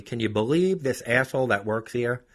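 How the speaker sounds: hammed-up ranting woman; ranting customer. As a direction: mimic her griping on the phone. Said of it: "She ranted about me".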